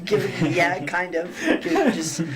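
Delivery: laughing while talking. Real, not acted. Player laughing mid-answer.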